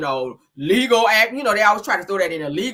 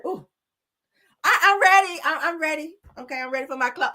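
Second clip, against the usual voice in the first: mock eager singer; 8 semitones higher than usual. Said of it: "just say".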